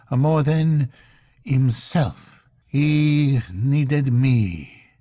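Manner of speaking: grieving intended. Acted. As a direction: pour out a long-held grief.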